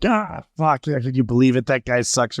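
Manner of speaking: small-scale temper tantrum, retold; half-hearted frustrated gripe; mock tantrum. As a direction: act out a petty gamer outburst. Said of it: "minor league temper tantrum".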